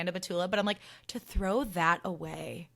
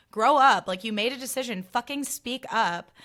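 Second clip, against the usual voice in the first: loud burst, then firm telling-off; fed-up, raised-pitch rebuke; exasperated scolding; 4 semitones higher, 6 dB louder than usual. Acted. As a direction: tell him off, hitting the opening hard. Scolding the silent man.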